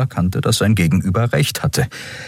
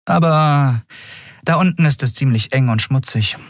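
higher-voiced woman captain, apologetic; Captain Nagun telling Miko she can't pay; 5 semitones higher than usual. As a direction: break it gently.

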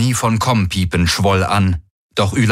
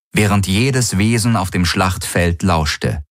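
ordinary delivery, nothing marked

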